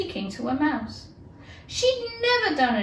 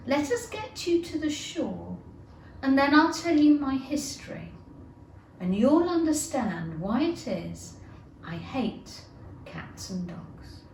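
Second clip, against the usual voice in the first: low trembling voice; 4 semitones higher than usual. Acted. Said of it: "in a low, trembling voice".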